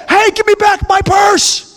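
high shout, demanding the purse back; shout at thief. Pretend. Preacher showing how to shout at a purse thief, high demanding shout. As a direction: shout her down the steps. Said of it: "No, you would say".

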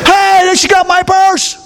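high, alarmed cry about the purse; high call out. Pretend. Preacher playing a woman calling out about a stolen purse, high cry. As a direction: cry out after the purse thief.

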